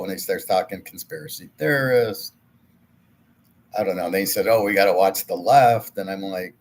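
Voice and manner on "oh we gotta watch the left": mocking quote. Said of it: "Who talks like this?".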